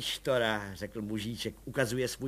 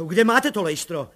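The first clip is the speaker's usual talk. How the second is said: louder, higher breathless cry; 8 semitones higher, 9 dB louder than usual. A narrator's reading. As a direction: burst out without breath. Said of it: "vykřikl plukovník bez dechu".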